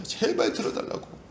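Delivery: high, drawn-out plea without volume; imploring cry. Retold or imitated. Preacher imitating Bartimaeus begging to be heard, imploring. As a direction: beg in a high, stretched voice. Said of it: "아주 큰 소리로 외치잖아요".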